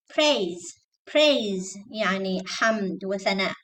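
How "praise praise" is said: "praise" with a puffed P; clear P. Shown as a demonstration. Teacher drilling students, clear P in "praise". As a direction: model "praise" starting on a clean P, word alone. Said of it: "Don't say braise".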